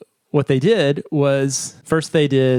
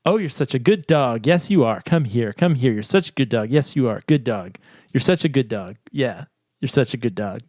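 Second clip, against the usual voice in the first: dog-directed speech. Shown as a demonstration. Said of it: "in the dog-directed speech script".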